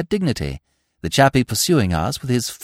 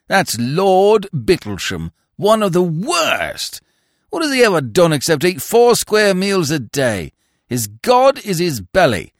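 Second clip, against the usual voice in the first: ranting street orator. Acted. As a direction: hammer each insult home to the audience. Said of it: "he was yelling".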